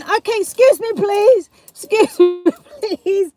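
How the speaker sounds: high-pitched re-enacted excuse-mes; comic high call, breaking into laughter; mock urgent pleading. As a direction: squeeze past a queue, hammed up. Re-enacting running back past queue.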